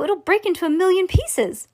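high-pitched, panicky protest; alarmed shout. A narrator's reading. Grandpa Joe fearing the glass will shatter, alarmed shout. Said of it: "shouted Grandpa Joe".

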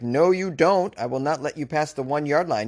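defiant goal-line stand, hammed up; mock defiant. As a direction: play an attacker heroically refusing to let him pass. Acting out the attacker blocking deacon.

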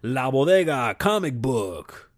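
slow, drawn-out trailer announcer; mock announcer. Vlogger announcing his own knockoff superhero show. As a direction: announce it like a movie title. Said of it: "I'll be like".

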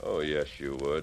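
calm and sure of himself; quiet insistence. Acted. Insists Feeney would pay gunman.

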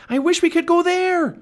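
very high, loud sustained shout. A narrator's reading. Girl making the magic wish in a storm, shouting high. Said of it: "she shouted".

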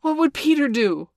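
loud, high-pitched cry; group cry. A narrator's reading. Boys turning to Peter in dire moment, urgent cry. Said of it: "they cried simultaneously".

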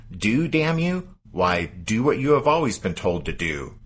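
gruff, loud snarl at a captain. Retold or imitated. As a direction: snap it out gruffly, pitch jumping.

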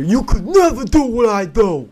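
loud, high-pitched boasting; mock boast. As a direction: crow it over the audience, hammed-up.

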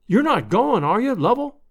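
high-pitched, pleading question; lightly acted alarm, urging the guest to stay; dismayed hostess.

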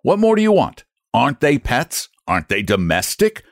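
red-faced man losing his temper; furious customer. Acted. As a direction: jab every question at him. Furious customer argues rates.

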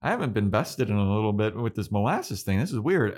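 mock startled, rising whoas; lightly voiced bewildered villain, laughing through it; imitating Glory. Podcaster retelling Glory getting frozen, mock bewilderment. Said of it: "Glory's like".

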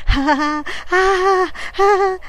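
high, loud shrieks in short bursts; panicked shriek. A narrator's reading. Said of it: "I shrieked again".

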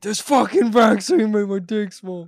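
teasing a friend by voicing him as a grumpy old man; mock old man. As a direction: play a cranky seventy-eight-year-old complaining. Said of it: "You're like, you're like seventy-eight".

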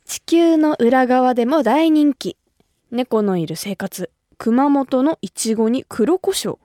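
slow, measured radio announcer read; menu read-out. Real, not acted. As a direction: present each topic like a headline, unhurried. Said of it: "トークメニューを読ませていただきますね". (番組メニューをゆっくり読み上げる)

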